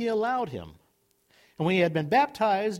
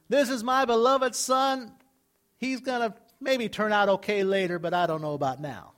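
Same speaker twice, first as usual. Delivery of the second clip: mock doubtful father.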